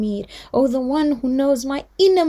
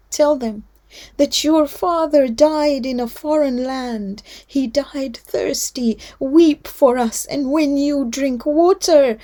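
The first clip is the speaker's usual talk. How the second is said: grieving lament; 2 semitones higher, 5 dB louder than usual. Acted. Imam's dying message, mourning recital.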